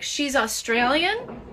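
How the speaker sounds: drawn-out question rising high at the end; retold question. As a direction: slowly repeat it as a questioning retelling. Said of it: "they're like".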